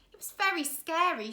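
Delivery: put-on a light young girl voice.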